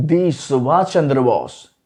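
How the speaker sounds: the said as "dee", slow and stressed before Subhash Chandra Bose. Shown as a demonstration. Teacher demonstrating emphatic "dee" to students. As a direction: lean on the long "dee" of the, slowly. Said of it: "दी पे ज़्यादा stress कर रहे हैं".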